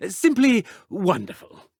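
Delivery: flustered chuckle through the words; nervous laugh. Acted. Headmaster covering a slip to Professor Weasley, nervous laughing. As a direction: laugh it off nervously to hide the lie.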